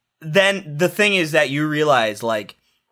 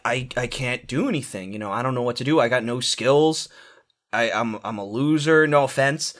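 dejected loser; 4 semitones lower than usual. Acted. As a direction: sound mildly sorry for yourself. Playing the self-pitying loser.

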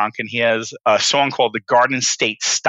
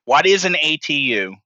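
fussy, slightly raised know-it-all question; pedantic; 4 semitones higher than usual. Acted. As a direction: ask it like a stickler for terms. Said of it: "That's the speaker's pedantic voice".

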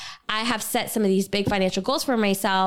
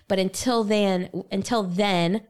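slipping into a Southern accent on until then; a drawn-out Southern until then; slower than usual. Shown as a demonstration. Hosts role-playing budget talk, a Southern accent slips out. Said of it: "ooh, my Southern accent came out".

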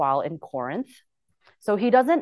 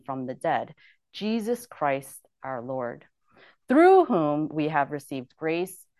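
scripture reading. Acted. Reads Romans aloud.

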